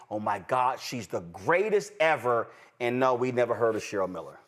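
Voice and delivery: ordinary talk, nothing marked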